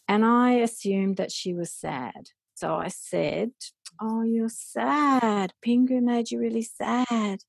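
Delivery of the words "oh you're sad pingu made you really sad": slow, higher, gentle soothing voice; comforting a toddler. Retold or imitated. Mother to daughter upset by Pingu, slow soothing coo. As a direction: coo it slowly, like soothing a crying child.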